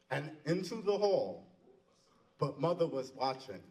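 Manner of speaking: measured recital with long pauses between lines; poem recitation. Acted. Mister Bergen reads his old college poem, measured recitation. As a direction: recite it line by line, pausing after each.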